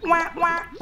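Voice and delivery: high-pitched quacking; playful ducky double quack; duck quack. Pretend. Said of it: "I'm a duck".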